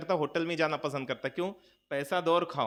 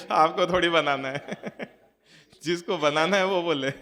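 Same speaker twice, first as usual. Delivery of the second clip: amused, louder, laughing through the words; 3 dB louder than usual. Real, not acted. Preacher joking with the women about who must cook, laughing. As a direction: tease the listeners, laughter breaking in.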